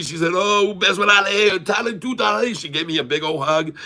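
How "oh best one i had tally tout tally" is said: very high, imitated happy exclamation; effusive reply. Airport lady replying before a big hug, effusive. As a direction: mimic her delight in a high voice.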